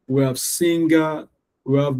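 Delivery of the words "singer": "singer" slowly, as SING-GAH; both syllables emphasized. Shown as a demonstration. Teacher repeating examples, both syllables of "singer" emphasized. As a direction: give "singer" two full, slow beats. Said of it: "how I can emphasize them".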